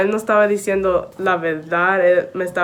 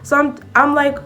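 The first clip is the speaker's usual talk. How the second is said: high and bright, rushing into the story; excited; 6 semitones higher, 3 dB louder than usual. Real, not acted. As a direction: raise the pitch, tell it eagerly. Retelling, building excitement.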